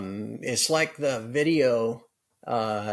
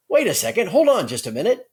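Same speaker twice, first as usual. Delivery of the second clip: higher-pitched, imperfect imitation of a co-host's accent; Andy impression; 5 semitones higher, 3 dB louder than usual. Teasing co-host Andy with his own catchphrase, rough accent impression. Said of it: "didn't do my best accent there".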